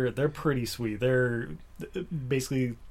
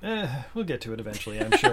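defeated. Real, not acted. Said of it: "You sounded so defeated just now".

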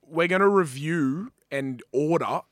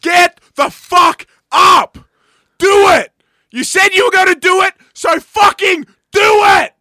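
screaming, much higher and louder, slow and hammered; furious motivational yelling; 12 semitones higher, 14 dB louder, slower than usual. Acted. Co-host screaming at listeners to get up and act, all-out yell. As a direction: bark them out of bed like a coach.

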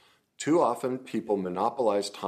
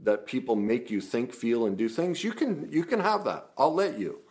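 conversational demo; 2 semitones higher than usual. Shown as a demonstration. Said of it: "acted as though I was having a conversation".

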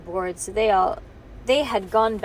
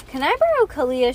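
breathless after running; out of breath; 5 semitones higher, 5 dB louder than usual. A narrator's reading. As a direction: pant out the question. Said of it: "she panted".

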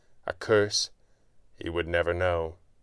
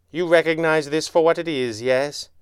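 higher, proud villain showing off his work; gloating villain; 7 semitones higher, 4 dB louder than usual. A narrator's reading. Villain shows his bomb to the fallen hero, gloating. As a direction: relish it as a gloating mastermind.

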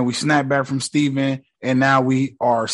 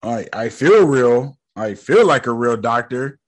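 condescending. Retold or imitated. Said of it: "the way he talk is so condescending".

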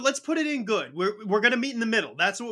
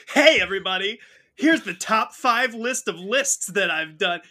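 YouTube voice. Retold or imitated. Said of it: "like, a YouTube voice".

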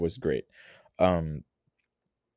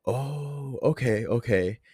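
mom's voice; 5 semitones higher, slower than usual. Retold or imitated. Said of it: "differentiate when it's me and when it's her".

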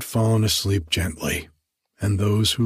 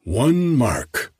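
mocking bid; 4 semitones higher than usual. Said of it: "cried Solling mockingly".

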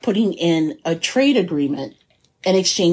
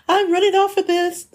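mock sneaky thief; 11 semitones higher than usual. Mock confession of stealing.

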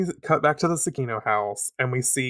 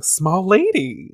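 drawn-out higher coo; a sweet slow little coo; fond cooing; 6 semitones higher, 5 dB louder, much slower than usual. Acted. Neptune thinking fondly at the mirror, fond cooing.

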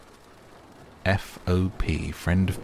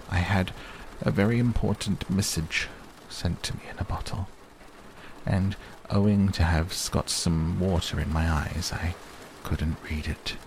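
lightly voiced, proud little speech of a bear; hint of a self-important bear, pausing between phrases. Pooh explaining his message to Christopher Robin, mildly proud.

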